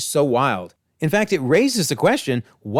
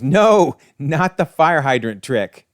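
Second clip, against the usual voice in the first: mock scream; 4 dB louder, slower than usual. Molten Man dreading the fire hydrant trick, mock scream. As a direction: throw out a mock villain's yell. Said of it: "And he screams".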